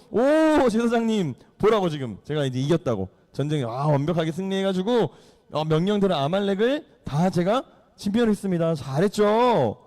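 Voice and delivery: acted boast with a big opening "oh"; hammed-up bluffing king; feigned confidence. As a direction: show off to the priest as if nothing is wrong. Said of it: "당당한 척".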